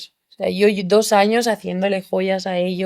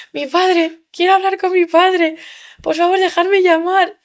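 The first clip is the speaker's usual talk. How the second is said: much higher, urgent pleading to call her father; overwhelmed begging; 10 semitones higher than usual. Retold or imitated. Just-freed prisoner begs guards to let her call her father, high and urgent. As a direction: plead as if in shock and near tears.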